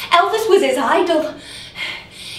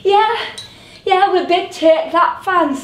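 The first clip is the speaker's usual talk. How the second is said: eager agreement; 5 semitones higher, 4 dB louder than usual. Acted. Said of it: "he said".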